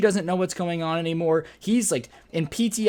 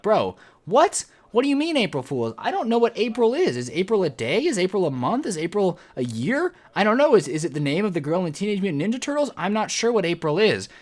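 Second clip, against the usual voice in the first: higher-pitched, hammed-up incredulous questioning; mock bafflement; 3 semitones higher than usual. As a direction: play utterly clueless and indignant. Acting baffled reply to officer's prank.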